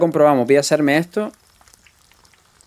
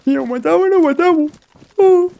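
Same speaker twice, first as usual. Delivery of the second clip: much higher, louder Argentine accent imitating the car guy; Argentine impression; 6 dB louder than usual. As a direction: play the Argentine from the car, pitched way up. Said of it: "Como diría aquel, el argentino del coche".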